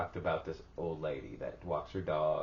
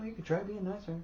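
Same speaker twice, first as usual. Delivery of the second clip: laughing; 10 semitones higher, 7 dB quieter than usual. Real, not acted. Laughing through quote.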